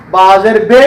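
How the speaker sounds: بے said with the Urdu ay vowel, the way it's commonly misread; wrong local reading. Shown as a demonstration. Teacher showing students the wrong Pakistani reading. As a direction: demonstrate the common mistake بے. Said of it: "یہ غلط ہے۔".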